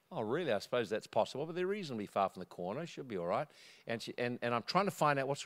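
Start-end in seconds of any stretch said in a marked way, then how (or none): 0.1-3.5 soft, low-key reasoning; gently retold reassurance; calm reassurance. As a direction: quietly soothe a worried neighbour. His calm reassurance to worried neighbour.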